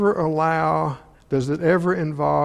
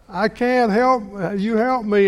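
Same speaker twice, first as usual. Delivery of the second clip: put-on whiny child; 6 semitones higher than usual. Child asking for help with homework.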